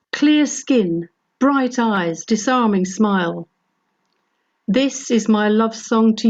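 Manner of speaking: measured poem reading, phrases lifted then falling; love poem recitation. Acted. Reads love poem for granddaughter.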